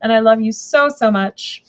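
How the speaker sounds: high cooing pet voice, sweet and doting; baby talk to dog. Retold or imitated. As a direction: coo at your dog like it's a baby. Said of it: "and I'd be like".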